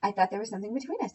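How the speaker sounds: "I thought there was something between us" rattled off fast; fast run-together quote of the man's confession; rushed quote. Retold or imitated. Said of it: "And he says".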